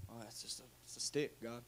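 very soft, low, hesitant reply; small, halting voice of self-doubt; sheepish Moses. Acted. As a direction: answer God meekly, almost under the breath. Moses sheepishly answering God, acted.

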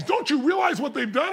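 acted indignant question; imitated upset partner. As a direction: voice an upset friend demanding agreement. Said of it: "I notice how upset he is".

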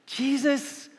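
flustered disciples with a nervous laugh; panicked disciples. Retold or imitated. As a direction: plead helplessly, we don't have enough. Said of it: "and they say".

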